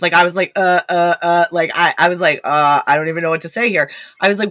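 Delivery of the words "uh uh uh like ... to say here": halting, lost-for-words stammer; retold confusion, fumbling for words; confused stammering. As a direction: stall on repeated uhs, baffled. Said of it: "so confused".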